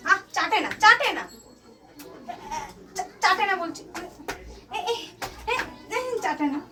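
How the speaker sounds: firm, rising scold to stop licking; quick no-licking scold; sharp telling-off. Real, not acted. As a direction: snap a no at the pet. Telling pet off.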